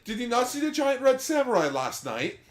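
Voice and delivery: lightly British, high mock voice; quick British-sounding jab; British accent. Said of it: "I made Naomi British".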